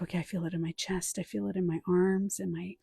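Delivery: murmured self-check; hushed inner voice. Pretend. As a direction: talk to yourself quietly while scanning the body. Narrating inner body scan.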